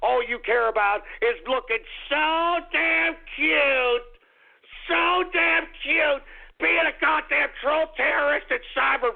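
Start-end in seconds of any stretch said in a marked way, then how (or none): 0.0-6.2 slow sarcastic mockery.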